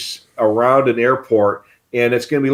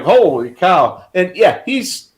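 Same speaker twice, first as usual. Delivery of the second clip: slow, higher-pitched exclamation of amazement; amazed reaction; 7 semitones higher than usual. Acted. Passenger seeing a plane pass the window, amazed. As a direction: draw out holy cow in mock astonishment. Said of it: "and it's like".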